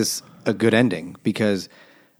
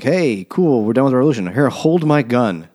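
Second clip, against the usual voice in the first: 1 mock cheery; 4 semitones higher, 6 dB louder than usual. Careless rebels handing over guns.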